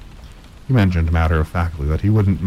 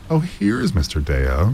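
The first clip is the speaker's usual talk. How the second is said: hostess crying out; 4 semitones higher, slower than usual. Acted. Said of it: "cried his hostess".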